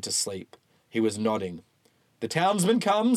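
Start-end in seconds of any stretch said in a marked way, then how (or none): 2.2-3.2 preacher voice. Acted. Bunyan announces townsmen.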